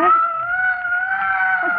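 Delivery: high, drawn-out startled outburst; frightened cry. Acted. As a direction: voice leaping in sudden fear. Frightened by screams upstairs.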